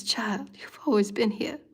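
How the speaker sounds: slow gentle whisper as Spirit. Acted. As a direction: hush it like a comforting spirit.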